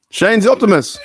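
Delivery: amused while watching; laughing. Real, not acted. Laughing remark at clip.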